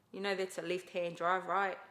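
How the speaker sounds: mock ex, knowing; ex pointing out. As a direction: point it out bluntly. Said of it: "he's like".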